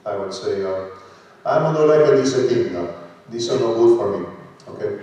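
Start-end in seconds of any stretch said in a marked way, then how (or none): 1.4-4.2 Italian accent. Shown as a demonstration. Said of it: "as an Italian".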